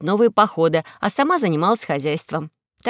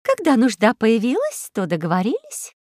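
put-on tart old housekeeper; 3 semitones higher than usual. Увара answers Карло about tyrants agreeing, tart and lilting. Увара retorts in her own voice.

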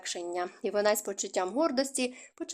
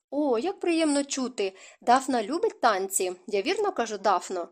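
delighted mother; 3 semitones higher than usual. Acted. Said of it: "розцвіла на очах".

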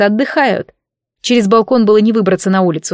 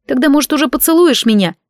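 higher, playful invitation; flirty, smiling; 5 semitones higher than usual. Acted. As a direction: tease him with a smile. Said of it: "предложила с улыбкой".

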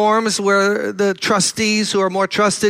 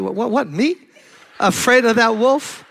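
mock laughing denial; 5 semitones higher than usual. Feigning no fear of wolf.

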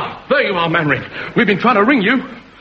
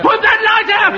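shouting; 4 semitones higher than usual. Acted. Warden yelling at distant lighthouse.

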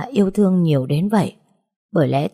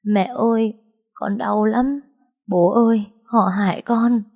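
higher, pleading cry to parents; tearful wail; 5 semitones higher than usual. A narrator's reading. Daughter sobbing into her mother's arms, acted tearful plea. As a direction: call out like a hurt child seeking comfort. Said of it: "khóc nức nở".

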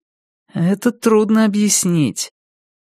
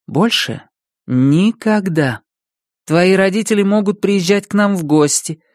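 calm. Acted. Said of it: "я спокойно сказала Илье".

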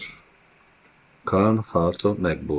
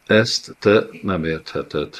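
stammered; slower than usual. Acted.

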